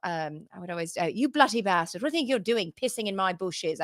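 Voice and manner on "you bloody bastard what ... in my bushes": lightly hammed-up British accent; bad put-on accent. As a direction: scold in a mock British accent. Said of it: "I would do this accent".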